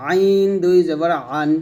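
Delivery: "আইন" and "আন" squeezed from mid-throat; throat-pressed "আইন". Shown as a demonstration. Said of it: "আইনটা গলার মাঝে চাপ দিয়ে".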